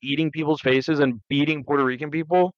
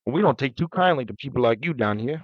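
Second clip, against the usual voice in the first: put-on Southern accent. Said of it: "That was more Louisiana".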